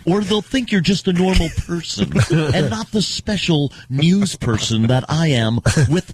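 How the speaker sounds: lightly put-on self-important anchor voice; a hint of a special news person; mock news voice. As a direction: play a pompous newsman, slowing at the end. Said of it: "have to talk like this".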